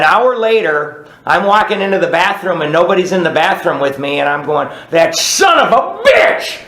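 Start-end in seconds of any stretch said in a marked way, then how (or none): 4.9-6.6 high, slow, furious shouted curse; angry shout. Retold or imitated. Alone in the bathroom cursing the boss, furious shout. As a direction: spit it out at the absent boss.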